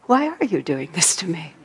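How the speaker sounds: calm inquiring tone; open sincere question. Shown as a demonstration. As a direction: ask genuinely wanting to learn. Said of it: "And the other question is".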